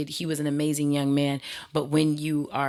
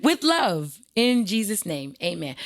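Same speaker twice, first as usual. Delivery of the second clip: sarcastic blessing; 3 semitones higher than usual. Real, not acted. Sarcastic sign-off.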